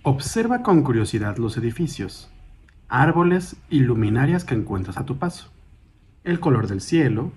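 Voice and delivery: calm, measured meditation guide, slightly softened; guided meditation. Acted. Guide leading a listener through a mindful walk, calm guided meditation. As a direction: guide them gently through each step, with long pauses.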